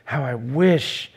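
ache for what could have been; longing wish. Retold or imitated. Jesus longing over the lost city, slow yearning. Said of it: "but rather says".

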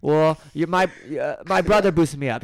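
put-on a touch of a flustered kid; a son stammering out an excuse to his mom; mildly voiced kid. Timmy's excuse.

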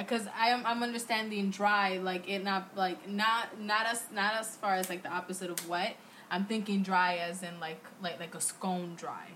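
high, rambling and unfocused; stoned. Real, not acted. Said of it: "I'm high".

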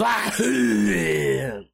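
explosive imitated sneeze; violent sneeze. Shown as a demonstration. Showing his own sneeze, violent and explosive. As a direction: burst out with a big, roaring sneeze. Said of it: "I've always had a violent sneeze".

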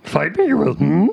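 slow, lightly put-on puppet voice; hint at a slow little puppet master; Yoda. Co-host trying puppet voices, light Yoda voice. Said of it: "that's Yoda".

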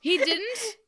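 high-pitched surprised question. Real, not acted. Co-host hearing a history fact, surprised. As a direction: react in real surprise, pitch leaping up.

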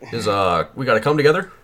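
halting presidential impression; Barack Obama. Comic addresses the nation as Obama, halting mock oratory. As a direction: speak in short bursts with pauses between. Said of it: "the key to talking like Barack Obama".

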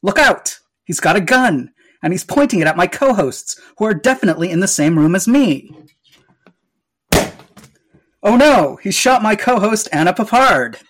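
mock panic. Panicked host during mock attack.

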